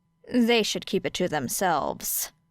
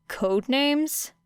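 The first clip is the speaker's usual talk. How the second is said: higher, rising question on names; puzzled echo; 5 semitones higher than usual. Acted. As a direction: repeat it back, baffled. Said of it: "Era puzzled over this".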